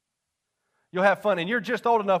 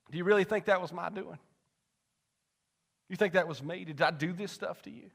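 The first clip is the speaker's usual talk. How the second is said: gentle questioning; 5 dB quieter than usual. Retold or imitated. God's gentle answer, retold.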